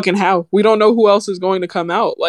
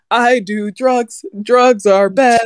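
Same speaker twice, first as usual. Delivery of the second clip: slow, dragging parody of a sad rapper; sneering imitation of depressed lyrics; mock rapper lyrics; 4 semitones higher, slower than usual. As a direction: drone it out like a mopey lyric.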